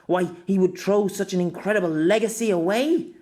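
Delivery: lightly voiced, insistent expert; authoritative woman doctor. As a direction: argue the case emphatically to the inspectors.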